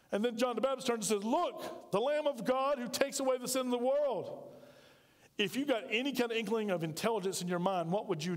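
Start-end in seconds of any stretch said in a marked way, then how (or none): 1.3-4.5 higher, ringing announcement; excited proclamation. Acted. John the Baptist calls to his disciples, excited. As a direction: point him out to everyone.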